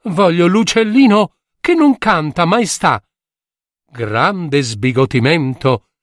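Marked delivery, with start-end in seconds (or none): 0.1-3.0 higher, pressing demand; insistent prince. A narrator's reading. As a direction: insist on the wish. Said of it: "prince insists". (principe che insiste)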